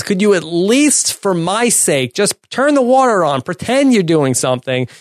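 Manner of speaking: exasperated plea. Retold or imitated. Acting out Jerry's exasperated plea.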